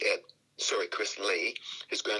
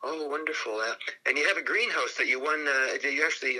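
higher, retold show of interest; making small talk; 4 semitones higher than usual. Driver chats to Willie about his greenhouse, retold small talk. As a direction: keep the legend chatting, lightly acted.

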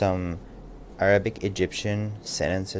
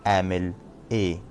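1 quick Arabic phrase; much faster than usual. Shown as a demonstration. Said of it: "and also".

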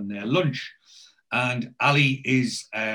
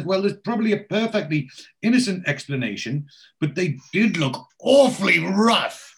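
high-pitched posh lady, louder as it builds; 7 semitones higher, 4 dB louder than usual. Acted. Posh lady telling the village cop about rough men, high voice. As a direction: play a nosy posh lady, high and emphatic. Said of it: "posh lady with the dog".

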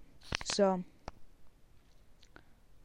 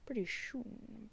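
slow drawn-out Jim Carrey; 3 semitones higher, 7 dB quieter, much slower than usual. Pretend. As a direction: stretch out "Pretty soon" slowly. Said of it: "my weird Alfred slash Jim Carrey impression".

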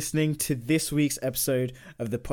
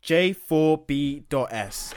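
hyped giveaway announcement; much slower than usual. Real, not acted.

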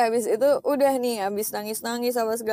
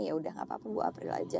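gentle voice of God; 8 semitones lower, 9 dB quieter, faster than usual. Retold or imitated. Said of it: "Tuhan kayaknya".

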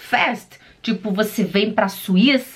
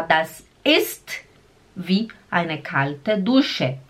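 slow model phrase; devagar; 4 semitones lower, much slower than usual. Shown as a demonstration. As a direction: say it slowly for the learner. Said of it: "você fala". (frase devagar para repetir)

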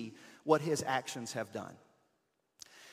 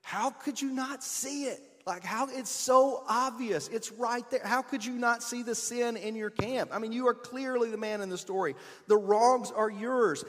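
higher, slow, mock-exasperated disbelief; incredulous judging; 8 semitones higher, 4 dB louder than usual. Readers judging David, mock incredulous. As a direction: scold David as if it's obvious. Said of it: "read David's story and think".

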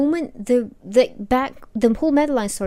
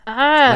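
frustrated groan; 3 semitones higher, 9 dB louder than usual. Acted. Acting frustration at unread knowledge.

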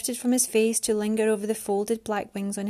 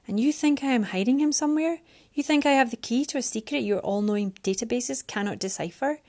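raised, exasperated woman's voice; frustrated Mariana; 3 semitones higher than usual. Acted. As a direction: argue back, pitch up.

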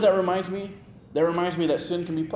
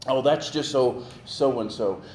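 a light imitation of someone shrugging it off; breezy made-up excuse, lightly voiced; mild mock excuse, said as if it explains everything; slower than usual. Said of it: "we make all these excuses".

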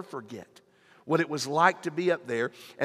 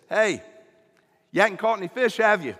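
calling out; 5 semitones higher, 6 dB louder than usual. Retold or imitated. Stranger calling from the shore.

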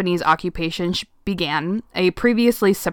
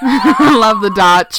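put-on deep drawn-out valley girl; slow laughing valley girl gush; 3 semitones higher, 8 dB louder, much slower than usual. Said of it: "That makes you sound like deep Valley girl".

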